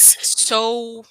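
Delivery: very slow, high, stretched sexualized; drawn-out disgust. Acted. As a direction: drag out the word in disbelief.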